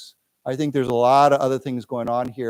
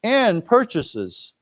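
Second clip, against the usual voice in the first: and purchases, drawn out very slowly and higher; very slow model; 6 semitones higher, much slower than usual. Shown as a demonstration. Teacher models phrase for students, very slow. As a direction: crawl through it for the class. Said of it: "let's read this".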